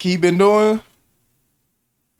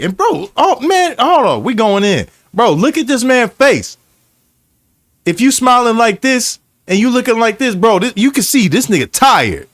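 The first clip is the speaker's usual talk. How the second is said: worked up; 5 semitones higher than usual. Real, not acted. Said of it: "I'm getting so pissed off".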